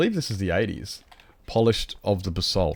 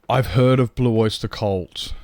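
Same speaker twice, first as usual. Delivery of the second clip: gasp, then slower, slightly raised delight; light up at a name you know; surprised recognition; 2 semitones higher, 4 dB louder, slower than usual. Real, not acted.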